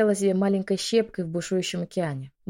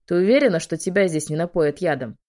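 booming voice; 5 dB louder than usual. Acted. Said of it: "Голос генерала гремел".

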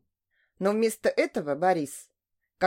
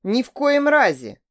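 confident; 5 semitones higher, 6 dB louder than usual. A narrator's reading. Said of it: "уверенно заявил Борис".

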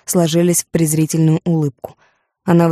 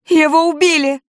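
much higher, louder hysterical wail; wailing scream; 11 semitones higher, 3 dB louder than usual. A narrator's reading. Judith in her father's arms, wailing hysterically. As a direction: howl it in grief and fury. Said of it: "вопила она".

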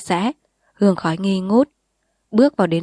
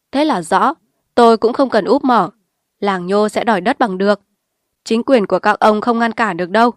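angry defiance; 3 semitones higher, 5 dB louder than usual. Acted. Khả confronts the party secretary.

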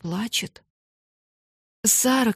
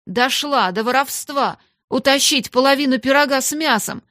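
high, loud indignation; scandalised scolding; angry shout; 5 semitones higher, 6 dB louder than usual. A narrator's reading. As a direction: accuse with outraged emphasis. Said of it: "крикнула мисс Минчин".

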